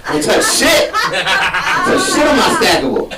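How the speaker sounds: indignant outburst. Acted. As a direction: storm off in a huff. Storming off, petty declaration.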